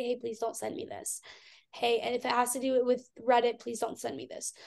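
soft, weary asking; worn-out hushed request; quiet plea. Retold or imitated. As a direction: ask them quietly to stop. Pleading with friends to stop.

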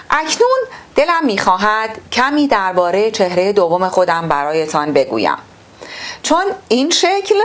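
measured, formal reading-aloud voice; textbook reading. Acted. Teacher reading the textbook to pupils, formal and measured.

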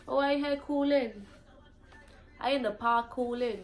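relaxed Virgin Islands slang demo; Virgin Islands accent. Shown as a demonstration. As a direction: chill island voice, said lightly. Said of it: "That's what we just say".

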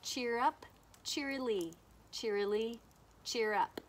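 robin's song in words, spaced out phrase by phrase; lightly imitated robin call. Shown as a demonstration. Teacher shows children what the bird says, lightly imitated robin call. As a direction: lilt it lightly like a robin, with pauses between calls. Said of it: "The bird says".

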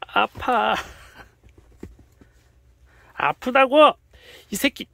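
high, very loud pained yell. Real, not acted. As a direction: shout that it hurts. Being bitten, yelling.

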